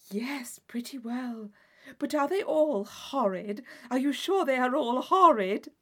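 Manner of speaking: loud, urgent delighted question; eager Catherine. Acted. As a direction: beg to know they're horrid.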